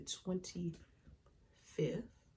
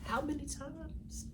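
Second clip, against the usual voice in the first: higher, slow rising cry of disbelief; anguished plea; 9 semitones higher, slower than usual. Real, not acted. Crying out to God over her setbacks, anguished and high. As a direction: stretch it up like asking heaven.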